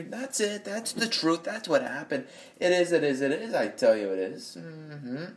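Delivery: mock-solemn comic delivery of a joke; Norm Macdonald impression. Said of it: "Norm impression".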